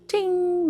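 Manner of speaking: high, soft bell ting; playful high-pitched ding; imitated bell chime. Shown as a demonstration. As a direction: imitate a little chime with your voice. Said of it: "I can't make that sound".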